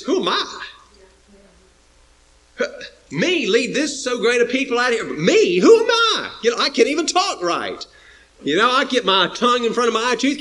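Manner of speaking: pleading, high rising protests; Moses protesting. Acted. Preacher voicing Moses pleading with God, high and quick. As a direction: Moses voiced as a stammering, unwilling man. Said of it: "kinda like Moses".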